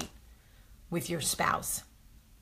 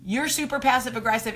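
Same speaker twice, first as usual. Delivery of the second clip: mocking laugh; 4 semitones higher, 6 dB louder than usual. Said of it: "everybody else that's reading the comment is going".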